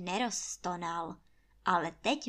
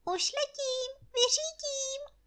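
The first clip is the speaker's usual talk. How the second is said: very high, chirpy little jay; chirping bird voice. A narrator's reading. The jay chirping eagerly it will fly to Krakonoš. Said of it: "a štěbetla".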